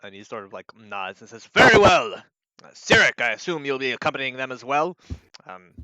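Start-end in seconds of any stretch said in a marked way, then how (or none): 1.5-5.0 loud, raised in-character knight voice; commanding knight. Acted. Knight accepting the plan, loud and commanding. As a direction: project like an officer in charge.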